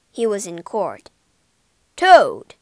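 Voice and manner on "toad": very loud, stern bellow; fierce shout. A narrator's reading. The judge addresses Toad in court, shouting fiercely. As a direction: thunder the name in accusation. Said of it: "said the judge fiercely".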